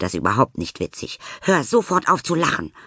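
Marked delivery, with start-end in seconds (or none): 1.4-2.7 put-on high child's furious hiss; angry hissing snap. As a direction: snap it at her friend. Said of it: "faucht sie".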